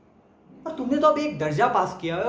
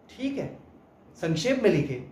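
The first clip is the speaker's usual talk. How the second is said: softer, sarcastic concession; acted grudging agreement, dropped in level; mock acceptance; 3 semitones lower, 4 dB quieter than usual. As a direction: pretend to give in, quietly. Mock acceptance of an absurd rule.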